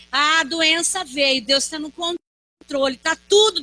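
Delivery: building preacher's refrain, ending in a shout; rhythmic sermon litany growing to a shout; preaching. Acted. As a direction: preach it, rising to a cry.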